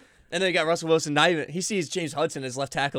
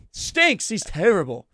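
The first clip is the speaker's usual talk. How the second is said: much higher, louder disgusted outburst; 6 semitones higher, 5 dB louder, slower than usual. Real, not acted. Fan blasts a bad lineman, disgusted and loud. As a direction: spit the word out in disgust. Ranting about Evan Neal.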